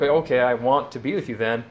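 emphatic. Retold or imitated. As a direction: push it, enthusiastic and over the top. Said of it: "He's just very emphatic".

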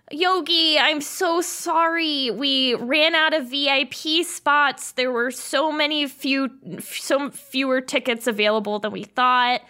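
sorry, sorry, we ran out of spots; Josie apologizing. Acted. Josie on the phone to Yogi, a lightly voiced apology. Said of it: "Josie answered the phone and was like".

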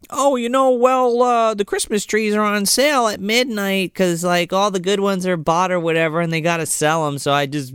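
lightly voiced chatty kid, starting high; a hint of a rambling little boy. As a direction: raise it into a casual child's ramble, easing down. Voicing little kid in retelling.

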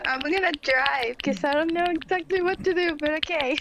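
talking with a mouthful of nuts; mouth full. Real, not acted. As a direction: speak round a full mouth. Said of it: "you gotta walk around with a mouthful of nuts".

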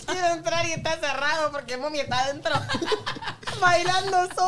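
laughing. Real, not acted. Laughing while telling funny story.

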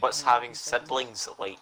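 slow, deliberate repeat; slow and clear. Real, not acted. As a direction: spell it out slowly for them. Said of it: "I can't hear you".

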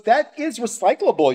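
high, prim mock correction; imitated fussy neighbour. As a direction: mimic a neighbour primly objecting. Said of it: "he goes".

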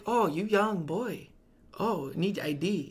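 slow imitation in an Asian accent; lightly put-on Asian accent, slowed right down; mock Asian accent. Store clerk asking customer for ID, mock Asian accent. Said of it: "it sounded Asian".

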